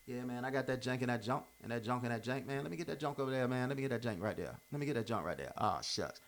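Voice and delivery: put-on old slangy way of talking. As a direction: toss off the slang casually, like the kid he used to be. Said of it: "I used to talk like this".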